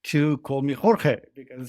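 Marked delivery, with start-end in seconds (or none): 0.7-1.2 Jorge said as HOR-hay; Spanish-style pronunciation. Shown as a demonstration. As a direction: say Jorge with h sounds, two syllables. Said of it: "usually Americans tend to".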